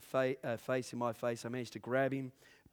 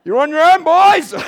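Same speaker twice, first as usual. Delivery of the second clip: laughing retold line; 23 dB louder than usual.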